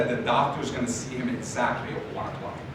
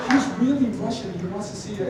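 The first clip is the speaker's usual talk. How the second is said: sweet grandmotherly receptionist; 4 semitones higher, faster than usual. Retold or imitated. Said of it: "kinda like a grandmother, just really nice".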